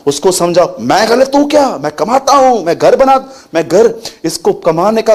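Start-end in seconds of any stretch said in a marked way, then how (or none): 0.8-3.9 proud husband. Retold or imitated. Imitating arrogant husband.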